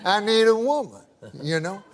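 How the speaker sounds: lightly voiced country old-timer; hint of a Southern good old boy; good-old-boy storyteller. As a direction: spin it out as a folksy yarn. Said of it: "That's how he talks".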